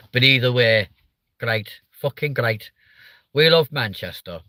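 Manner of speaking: lightly mocked Manchester accent; rough Northern English impression; bad Manchester accent. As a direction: put on a bit of Mancunian. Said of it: "my really shit impa-, impressions".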